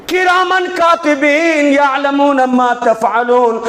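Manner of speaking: slow, drawn-out Quranic recitation. Acted. Preacher chants the verse to the congregation, slow and solemn.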